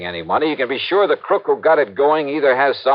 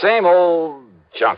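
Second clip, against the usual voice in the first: slow, dismissive scoff, pitched up; 7 semitones higher, much slower than usual. Acted. Investigator scoffing at the client's chain letter. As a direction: drag it out like it's all nonsense.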